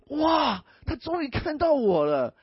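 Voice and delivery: high, loud swooning cry of joy; giddy delight. Retold or imitated. Preacher mimicking a smitten girl, giddy cry. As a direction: gush like a lovestruck girl.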